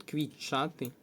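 "квітчати" with тч merged into one long ch; lengthened consonant sound. Shown as a demonstration. Teacher showing pupils the lengthened sound in "квітчати", merged long ch. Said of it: "Ось такий буде звук подовжений".

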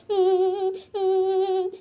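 choked sobs as he says goodbye; crying. Acted. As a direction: daughter crying, not wanting her father to go. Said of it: "ಅಳ್ಬಾರ್ದು ಮಗಳೇ".

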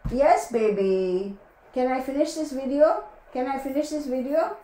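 sweet pleading. Real, not acted. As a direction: coax the dog to wait. Pleading with the dog.

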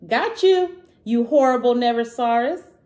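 high, loud triumphant bellow; big loud bellow of victory. Acted. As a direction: shout it out like you've finally caught the beast. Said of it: "they bellowed".

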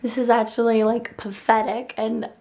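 hoarse, nearly gone voice; talking through a worn-out throat; lost voice. Real, not acted. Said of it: "my voice sounds so funny".

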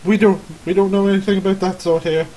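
lightly voiced nervous villager; defensive villager. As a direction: brush off the visitors at the door. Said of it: "He's like".

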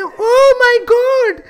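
slow, stretched Oh my God, high and loud; shocked cry. Acted. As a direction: gasp it out in disbelief. Sudden shock in game.

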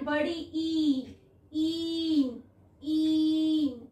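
ई and ईन as long, steady ee sounds. Shown as a demonstration. Teacher answering which sound it is, ई and ईन held long. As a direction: hold each ee slowly on an even note. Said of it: "कौन सी sound दे रहा है?".

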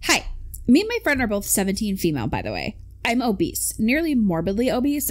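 lightly voiced teenage girl reading a post. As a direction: read it like a teen girl, lightly. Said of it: "I can't do the voice and read this".

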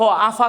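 আফা said with an f sound where standard Bengali has p; the p in আপা softened to f as আফা, Chandpur dialect style; regional আফা. Shown as a demonstration. চাঁদপুরের আঞ্চলিক উচ্চারণ দেখাতে আফা, প-এর জায়গায় ফ. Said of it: "আমরা পয়েরে বলি ফ".

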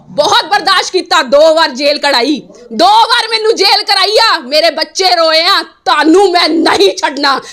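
real, heated indignation; angry, insistent tirade. Real, not acted. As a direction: declare your opposition angrily, hammering the repeats. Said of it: "ਇੰਨਾ ਗੁੱਸਾ ਕਿਉਂ?".

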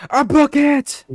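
shrill high-pitched squeal. Real, not acted. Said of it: "you fucking sound like a girl".

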